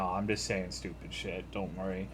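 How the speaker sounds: quiet reassuring. Real, not acted.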